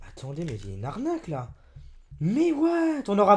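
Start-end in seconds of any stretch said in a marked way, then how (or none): 2.2-3.0 high startled what; disbelieving exclaim; surprised what. Real, not acted. Youtuber finding a Leclerc price tag, surprised.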